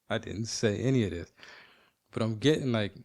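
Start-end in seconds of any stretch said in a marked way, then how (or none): 0.1-1.3 said through a laugh; chuckling confession. Real, not acted. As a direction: laugh while you admit it.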